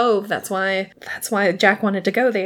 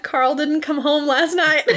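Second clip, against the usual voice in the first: giggly quote; 7 semitones higher than usual. Retold or imitated. Voicing the widow seagull.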